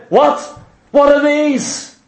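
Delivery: a hint of a baffled pig; mild mock confusion at the pearls; puzzled pig.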